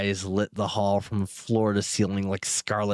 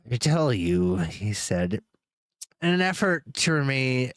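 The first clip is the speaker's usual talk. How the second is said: wrong voice. Shown as a demonstration. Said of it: "I keep doing the wrong voices".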